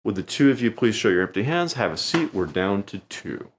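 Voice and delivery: a lightly voiced magician's stage command; showman's command. Shown as a demonstration. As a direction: magician sending two volunteers back to their seats, confidently. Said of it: "Once again".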